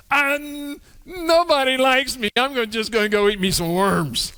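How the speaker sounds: put-on whiny little kid. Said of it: "Doesn't that sound like a little kid?".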